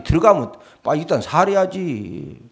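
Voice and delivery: ordinary talk, nothing marked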